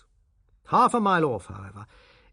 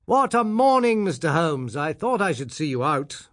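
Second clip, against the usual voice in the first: bright, raised hail from a friend across the path; cheery greeting; 3 semitones higher, 4 dB louder than usual. Acted. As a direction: call out a hearty good morning. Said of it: "waving his hand in cheery greeting".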